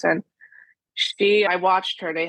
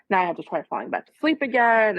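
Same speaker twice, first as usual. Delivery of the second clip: mildly irritated grumble, higher and quicker; light mock exasperation, rushed along; 4 semitones higher, faster than usual. Mother recalls grumbling at being woken, mildly irritated. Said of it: "just getting irritated".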